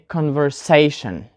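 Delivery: converSAtion, strong SAY and weak final shun; "conversation" with the beat second from the end; penultimate stress. Shown as a demonstration. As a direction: hit "sa" in "conversation". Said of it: "we put the stress on the penultimate syllable".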